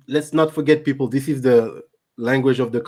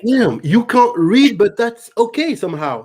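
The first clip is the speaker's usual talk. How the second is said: mock acceptance; 8 semitones higher than usual. Real, not acted. Mocking acceptance of illiteracy.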